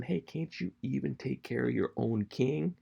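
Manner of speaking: half-yelled, teasing call-out; mock yell. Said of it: "And he's yelling".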